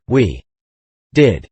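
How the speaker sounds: dry, deliberate sarcastic reply; slow deliberate sarcasm. A narrator's reading. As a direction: lay the words down slowly and cuttingly. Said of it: "kinder slow and deliberate and sarcastic".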